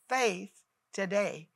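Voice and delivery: slow hushed whisper; whispered prayer. Acted. Preacher praying over viewers in a slow whisper. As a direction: breathe the words out in prayer.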